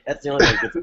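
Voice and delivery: lightly voiced fast Eddie Murphy; Eddie Murphy impression. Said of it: "Eddie Murphy".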